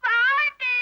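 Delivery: slow drawn-out tearful wail; x0.4 slow sobbing moan.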